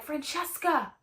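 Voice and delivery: mock-sinister parting threat; ominous warning. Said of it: "she finally has this tone of voice".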